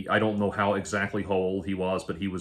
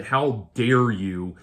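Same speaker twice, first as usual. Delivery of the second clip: slow, drawn-out how dare you; a retold indignant outburst, slowed; mock indignation; 2 semitones higher, 5 dB louder, much slower than usual. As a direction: imitate his outrage, stretching it. Retold angry message from him.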